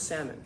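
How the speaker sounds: SALMON with a silent L, "SAM-un"; correct salmon. Shown as a demonstration. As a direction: leave the L out of SALMON. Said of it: "It's pronounced salmon".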